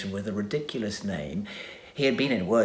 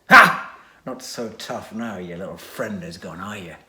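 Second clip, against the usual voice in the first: taunting; 7 dB louder than usual. Acted. Villain taunts hero.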